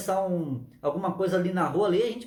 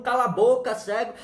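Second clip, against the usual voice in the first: louder, scolding snap; crowd hushing; 3 semitones higher, 4 dB louder than usual. Acted. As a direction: shut him up sharply. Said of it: "E todo mundo". (a multidão mandando calar)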